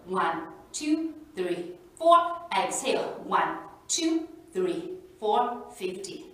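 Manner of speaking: counting slowly through each breath; paced inhale and exhale count. Shown as a demonstration. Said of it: "So I'm gonna count the breath again".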